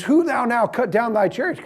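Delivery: a hint of a colonial dad demanding answers; mock old-timey father. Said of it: "'Cause that's how they talked back then".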